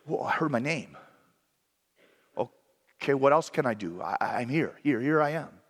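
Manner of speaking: quiet, searching reply with a hesitant repeat; humble hesitant answer. Shown as a demonstration. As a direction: shrug it out, not sure what else to do. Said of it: "more of the declaration of, like".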